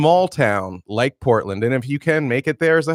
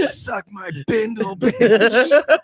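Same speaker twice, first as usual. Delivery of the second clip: gruff hobo voice; 8 semitones higher, much slower than usual. Acted. Hobo porn line acted.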